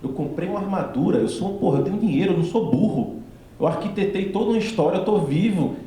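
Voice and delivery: defiant actor. Retold or imitated. Retelling the actor defending his dealer, high and insistent. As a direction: mimic the actor standing up for his role.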